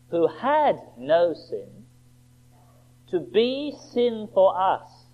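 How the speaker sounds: slow, solemn reading of the verse; measured, reverent scripture read. Acted. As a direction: read it slowly like holy writ.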